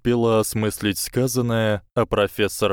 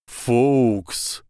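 higher cracking cry; voice breaking; 4 semitones higher than usual. A narrator's reading. Dumbledore calls to Fawkes, voice breaking. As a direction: let the voice crack on the name. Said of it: "срывающимся голосом обратился".

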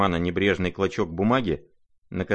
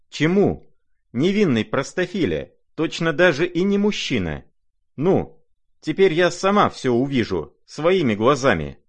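much higher, loud, scornful tirade; exasperated scolding; 8 semitones higher, 5 dB louder than usual. Acted. Lizaveta berating the naive prince, loud and exasperated. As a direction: scold him as a simpleton, hot-tempered.

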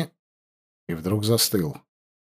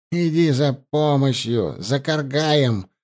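out of breath; 2 semitones higher than usual. Acted. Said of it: "задыхаясь, прохрипел он".

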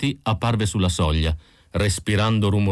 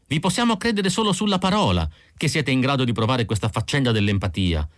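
a lightly higher, quicker woman's voice pressing her point; Irmgard arguing; 4 semitones higher than usual. Acted. Irmgard to Isidor, vehement, lightly voiced. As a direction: push the argument at him, a bit raised.

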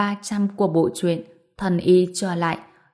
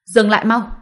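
higher, louder panicked yell; frightened angry shout; 4 semitones higher, 6 dB louder than usual. A narrator's reading. Beaten young master yells at Ngô Bình, panicked angry shout. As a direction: shout it in fear and rage. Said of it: "vừa kinh hãi vừa tức giận".

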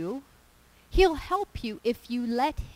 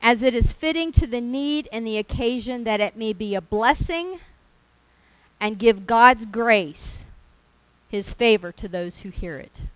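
scripture reading; 5 dB louder than usual. Acted. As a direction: lean hard on each warning word. Reads scripture with emphasis.

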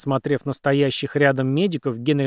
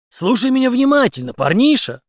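loud, higher threatening snarl; hissed threat; 10 semitones higher, 5 dB louder than usual. A narrator's reading. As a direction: spit it at him through the teeth. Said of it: "прошипел Генри". (Генри шипит на очкарика, громко)

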